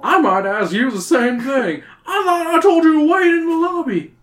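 high, loud scolding teacher voice; angry teacher. A narrator's reading. The teacher scolds the three kids, loud and angry. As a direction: scold them for leaving the lobby. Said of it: "Mister Dunning says angrily".

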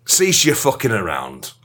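lightly voiced self-important expert; pompous golf expert. Golf expert introducing himself to podcast listeners, lightly pompous. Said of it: "I'm going to do a different voice now".

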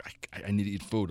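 low, soft whiny plea; imitating a hungry sister; mock pleading sister. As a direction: beg weakly for food. Sister begging for food.

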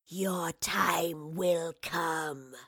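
very slow, whispered creature threat; menacing wraith. A narrator's reading. Wraith looks at the professor before fleeing, menacing. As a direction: hiss it out slowly as a whispery rasp.

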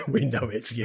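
giggling through the words; laughing. Retold or imitated. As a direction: laugh as you say it. Laughing repeat of quote.

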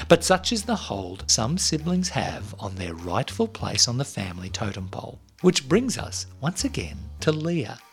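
measured storytelling read over music; story narration. A narrator's reading. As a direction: read it like a podcast intro. Scripted intro read over music.

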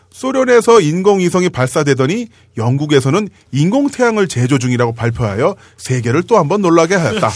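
lightly voiced vintage news announcer; old newsreel narrator. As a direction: read it like a 1950s newsreel. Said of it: "그 옛날 뉴스입니다".

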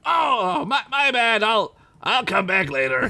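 very high, squeaky backing down; tiny pirate voice, sheepish; relenting clam pirate. A narrator's reading. Clarence backs off from Ugla, squeaky and sheepish. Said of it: "he relented".

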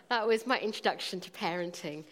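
ordinary talk, nothing marked

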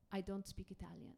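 imitating an Italian-accented English; strong Italian accent. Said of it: "in an incredibly pronounced Italian accent".

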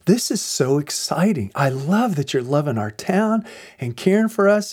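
lightly voiced enthusiasm, a little lifted; imitated jazzed lieutenant. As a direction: gush mildly as the delighted lieutenant. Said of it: "this guy is so jazzed".

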